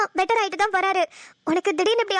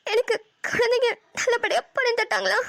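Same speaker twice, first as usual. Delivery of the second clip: tearful. Acted. New mother wakes after birth.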